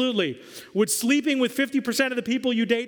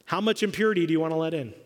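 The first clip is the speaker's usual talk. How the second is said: rapid question; much faster than usual. Shown as a demonstration. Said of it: "the big question to ask ourselves".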